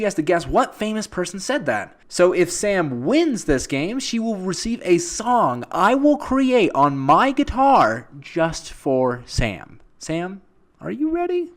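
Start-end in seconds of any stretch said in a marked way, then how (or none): 2.1-11.5 drawn out, slowing to a crawl; slow teasing hype; slow build-up. Acted. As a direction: stretch it out like a grand promise. Hyping the prize slowly.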